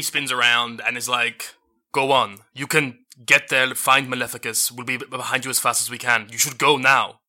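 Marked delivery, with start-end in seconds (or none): 1.9-7.2 urgent shout. Acted. Jody urges party to go.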